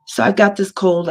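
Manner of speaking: normal talking voice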